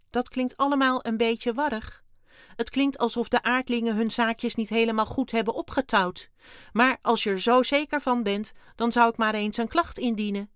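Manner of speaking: high, loud alien voice; sceptical alien Wim. A narrator's reading. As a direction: advise breezily as the doubting little alien. Wim answers. (hoge, luide ruimtewezenstem, sceptisch)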